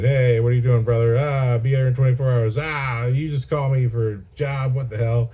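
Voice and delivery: lightly hammed-up complaint to a brother; acted phone exchange. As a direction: imitate a brother's indignant phone call, punching the openings. Acts out brothers' phone call.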